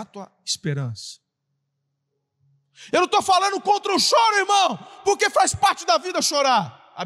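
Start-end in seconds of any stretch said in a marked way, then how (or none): 2.9-6.9 high, loud preacher's shout; preaching at full force. Acted. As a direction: drive the point home to the congregation.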